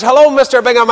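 high-pitched Ballymena greeting; retold Ballymena hello, high voice; Ballymena accent. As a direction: imitate a wee Ballymena man, pitched well up. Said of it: "the wee man from Ballymena came by".

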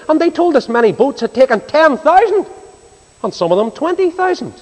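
rousing preaching. Retold or imitated. Preacher tells congregation of the miraculous catch, rousing preaching. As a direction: build the wonder phrase by phrase.

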